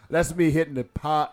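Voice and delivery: laughing through the words; giggling while explaining. Real, not acted. Laughing at hookah cough mix-up.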